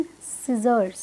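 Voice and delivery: scissors ending in a buzzed z; falling scissors with the plural z clearly sounded; correct scissors. Shown as a demonstration. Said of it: "क्या बनेगा इसका correct pronunciation".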